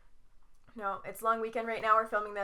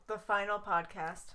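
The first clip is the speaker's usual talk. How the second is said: title announcement; 3 semitones lower, 5 dB quieter, slower than usual. Pretend. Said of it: "That should be the title".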